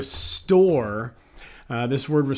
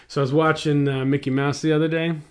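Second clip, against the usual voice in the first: imitating daughter; 4 dB louder, much faster than usual. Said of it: "like she just got back from the plant".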